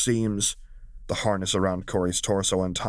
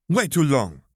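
higher, louder playful lament; mock wail; 6 semitones higher, 5 dB louder than usual. Valmora pulling Zariah back, playful wail. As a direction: whine it like two weeks were years. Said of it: "Valmora wailed".

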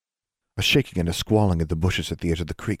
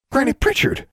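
a much higher, startled cry; shocked cry; 5 dB louder than usual. A narrator's reading. Sisters startled to see their great-grandmother, shocked cry. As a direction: cry out the name in surprise.

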